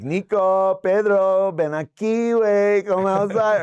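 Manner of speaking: high taunting call to come outside; gangster calling out. Retold or imitated. Gangsters outside the club calling the DJs out, high taunting call. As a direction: lure them out, singsong and menacing.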